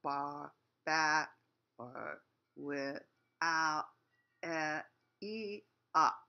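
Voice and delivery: put-on slow, drawn-out vowels on the old dog line; slow sounding out. Shown as a demonstration. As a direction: stretch out each vowel and pause. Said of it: "So you say".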